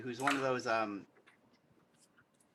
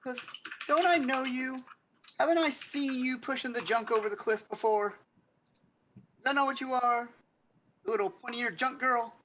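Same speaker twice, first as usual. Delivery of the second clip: haughty noble; 9 semitones higher, 3 dB louder than usual. Acted. Noble scolds elf girl haughtily.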